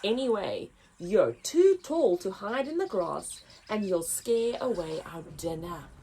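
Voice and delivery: lion. Acted. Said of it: "roared a majestic-looking lion".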